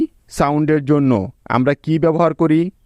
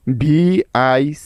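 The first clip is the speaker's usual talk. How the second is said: spelled letter by letter; slower than usual. Shown as a demonstration. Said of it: "শব্দটার বানান কি পেলাম আমরা?".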